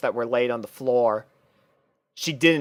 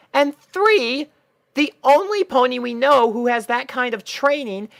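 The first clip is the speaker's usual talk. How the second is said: high, gentle pony voice, slowed on the name; a kind pony hiding a worry; Twilight voice; 11 semitones higher, 3 dB louder than usual. Acted. Twilight listing reasons.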